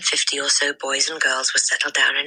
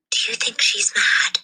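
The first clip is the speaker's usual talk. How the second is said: lightly raised, hushed schoolgirl; young girl voice; 7 semitones higher than usual. A narrator's reading. Lavender asks her friend in a hushed girl's voice. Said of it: "Lavender asked".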